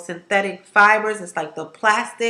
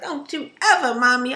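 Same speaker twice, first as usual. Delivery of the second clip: lightly voiced scolding daughter, higher; a hint of a stern little girl; 4 semitones higher than usual. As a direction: daughter telling her mom off. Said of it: "She was like".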